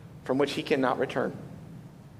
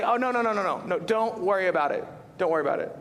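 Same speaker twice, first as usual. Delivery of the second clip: gracious host; 2 semitones higher, faster than usual. Retold or imitated. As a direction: wave it off like a generous host. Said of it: "we'd say".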